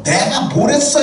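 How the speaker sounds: sharp, high, rising complaint; mock nagging wife. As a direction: act out a wife's nagging.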